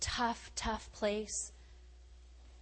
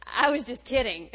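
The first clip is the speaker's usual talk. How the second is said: laughing. Retold or imitated. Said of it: "what I said was".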